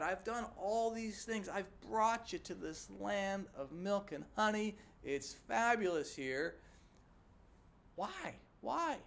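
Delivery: a father who gave everything asking why; frustrated parent. Retold or imitated. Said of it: "he's a frustrated parent".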